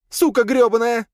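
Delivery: high, loud furious cursing; shouted curse. A narrator's reading. Mistress of shadows swears after dust hits her, shouting. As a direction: spit out the insult at full pitch. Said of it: "крикнула в ответ она".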